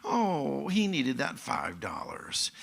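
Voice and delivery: soft, slow acted sympathy; compassion. Imagined victim pitying the poor thief, compassionate. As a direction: let pity slow the words down. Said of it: "have the compassion for the poor person".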